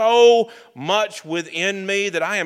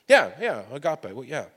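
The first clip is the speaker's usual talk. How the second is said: offhanded. Retold or imitated. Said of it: "offhandedly say".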